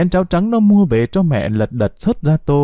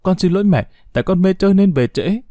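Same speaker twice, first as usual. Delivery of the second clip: mild crying; 7 semitones higher than usual. A narrator's reading. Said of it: "ôm chặt mẹ rồi khóc òa".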